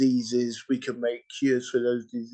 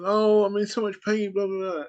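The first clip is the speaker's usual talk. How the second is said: put-on old woman in pain; 9 semitones higher than usual. Old woman in a hospital chair complaining, high pained voice. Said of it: "he meets this old woman in a chair".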